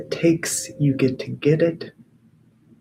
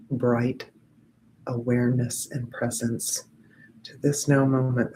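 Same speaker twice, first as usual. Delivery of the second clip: guided meditation; 3 semitones lower than usual. Acted. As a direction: guide the group gently into presence.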